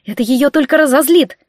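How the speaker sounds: alarmed caution; urgent warning. Acted. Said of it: "предупредила я".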